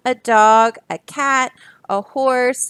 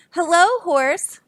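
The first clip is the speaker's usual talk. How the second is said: Duck voice; 6 semitones higher, slower than usual. Acted. Duck greets Horse.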